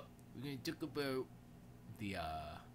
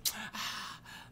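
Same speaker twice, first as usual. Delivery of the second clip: big movie-style breathy sigh, imitating her; dramatic gasp; 11 semitones higher than usual. Imitating her entrance like it's a movie, dramatic sigh. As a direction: heave an overdone, breathy sigh. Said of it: "all dramatic".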